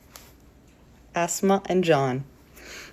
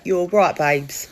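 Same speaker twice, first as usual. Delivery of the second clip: exaggerated British fella accent; cheeky British chap's accent, hammed up; mock British accent; slower than usual. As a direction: put on a playful British accent. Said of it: "He didn't talk like that".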